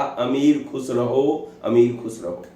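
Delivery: repeating अमीर खुश रहो instead of खुसरो; slow stubborn wrong reading खुश रहो; mispronunciation. Retold or imitated. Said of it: "हर बार वही बोलता रहा".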